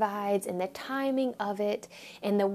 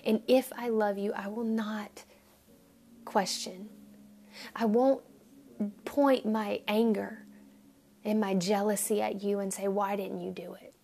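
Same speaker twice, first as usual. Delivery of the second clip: quiet prayer. Retold or imitated. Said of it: "we say".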